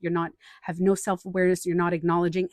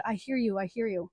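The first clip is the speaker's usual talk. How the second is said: calm validating; 4 dB quieter than usual. Retold or imitated. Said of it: "and I said".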